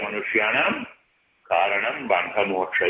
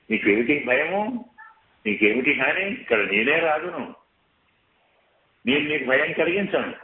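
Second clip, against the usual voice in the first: higher, coaxing suitor's voice; lightly acted Ravana pleading with Sita; Ravana wooing Sita; 4 semitones higher than usual. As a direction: charm her with sweet promises, pitched up. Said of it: "ఎవరి మాట ఇది?".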